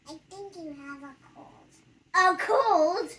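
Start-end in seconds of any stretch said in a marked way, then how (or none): 2.1-3.1 high, loud shocked question; surprised. Acted. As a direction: gasp it out in disbelief. Patient hears diagnosis.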